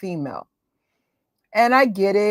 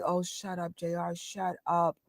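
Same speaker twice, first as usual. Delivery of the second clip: much softer, bored dismissal; eye-rolling annoyance; 2 semitones lower, 12 dB quieter than usual. Retold or imitated. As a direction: brush him off with an eye roll. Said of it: "I would roll my eyes".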